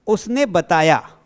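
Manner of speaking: slow dictation. Shown as a demonstration. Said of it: "मैंने कहा".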